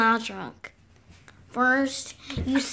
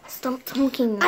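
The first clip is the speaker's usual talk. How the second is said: "Stop talking to me." said out loud, a bit louder; louder retort; 4 dB louder than usual. Acted. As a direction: snap "Stop talking to me." back in full voice. Whisper then repeat out loud.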